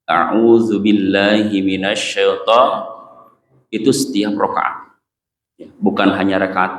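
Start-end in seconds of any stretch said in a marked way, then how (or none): 0.1-2.7 a'udzu billahi minasyaiton in a measured Quranic recitation; recited isti'adah. Shown as a demonstration. Teacher to congregation, showing how to start, in a recitation tone.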